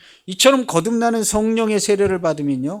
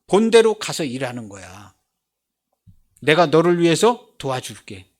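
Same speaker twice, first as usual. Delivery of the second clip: God's voice; 3 dB louder than usual. Retold or imitated. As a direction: lightly voice God sending someone out to work. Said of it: "하나님 나라가 보이는 사람한테".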